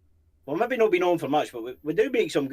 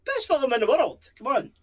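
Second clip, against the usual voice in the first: a fan gushing over Braveheart; excited raving; 12 semitones higher, 5 dB louder than usual. Real, not acted. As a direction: rave about the film you love most. Raving about favourite film.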